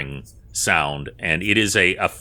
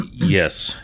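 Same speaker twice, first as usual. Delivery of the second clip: breathy whispered yes. Acted. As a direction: whisper it, weak and spent. Freed woman answers.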